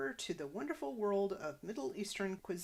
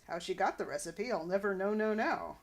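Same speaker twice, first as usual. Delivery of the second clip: louder, hammed-up Groucho Marx patter; 6 dB louder than usual. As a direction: toss off the quip like a wisecracking comedian. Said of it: "slipping into Groucho".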